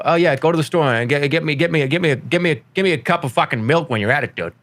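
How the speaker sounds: satirical Boston local, over-enunciated; mock Boston buddy talk, stumbling over the order; exaggerated Boston accent. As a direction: lay on a joking Boston accent. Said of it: "we would just add a Boston accent".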